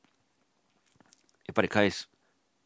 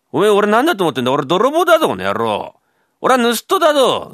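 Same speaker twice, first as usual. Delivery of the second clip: high, loud, fast bluster; blustering thief threat; 10 semitones higher, 9 dB louder than usual. Acted. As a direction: puff yourself up as a scary burglar. Thief threatens the sleeping man. (甲高く凄む泥棒)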